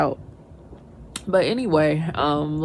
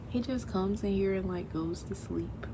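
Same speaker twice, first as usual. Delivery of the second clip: whisper; 2 semitones higher, 10 dB quieter than usual. Real, not acted. Mom whispering about her sleeping son, hushed. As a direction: drop to a breathy whisper.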